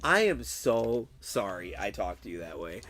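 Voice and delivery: low-pitched, subdued apology; retold contrite apology. Streamer calls his friend afterwards, low contrite apology. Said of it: "kind of embarrassed".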